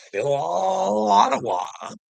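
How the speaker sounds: angry shout. Real, not acted. Ranting about the convoy.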